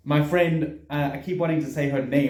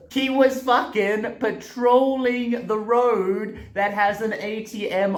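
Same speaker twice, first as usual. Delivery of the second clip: incredulous; 7 semitones higher, slower than usual. Real, not acted. Disbelief at the ATM.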